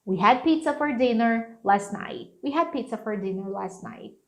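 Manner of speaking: connected sentence, "last night" without exploded Ts; native-style held T. Shown as a demonstration. Teacher demonstrating agile speech, "last night" with Ts held. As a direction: run it through to "last night", holding the T. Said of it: "Sem pena e nem dó".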